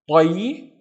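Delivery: "tayi" with dark T, stretched and rising; heavy emphatic ṭa. Shown as a demonstration. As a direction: sound out "tayi" as one slow syllable with a heavy T. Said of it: "the heavier version of ta".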